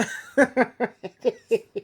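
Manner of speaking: quiet real giggle; soft real giggle. Real, not acted. Vlogger giggling over her ex's shelter stay, soft giggle. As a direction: giggle under your breath. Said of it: "I'm giggling right now".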